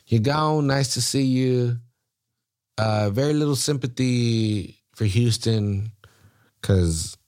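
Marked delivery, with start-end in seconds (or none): 0.1-1.8 gleeful send-off. Shown as a demonstration. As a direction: crow it like a farewell taunt.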